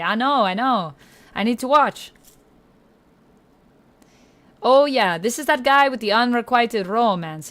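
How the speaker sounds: a hammed-up, very bad Italian accent all through. Streamer thanking chat, in a bad Italian accent. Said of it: "enjoyed my very bad Italian accent".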